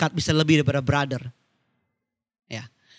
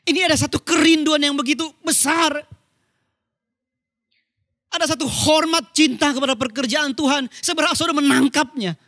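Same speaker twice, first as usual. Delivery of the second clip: raised, fervent preaching pitch; chosen fervent intonation; 8 semitones higher than usual. Real, not acted. Preacher explaining his longing for God's work, fervent raised intonation. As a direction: let great longing lift the intonation, without anger. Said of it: "melalui intonasi yang saya pilih".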